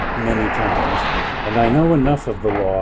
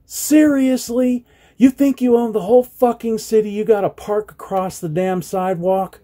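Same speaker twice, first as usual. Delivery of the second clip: high, loud, furious yelling at the driver; Really, Seriously, hurled at a parked truck; retold angry shout; 11 semitones higher, 4 dB louder than usual. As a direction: shout it like you're reliving it. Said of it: "So I shouted out".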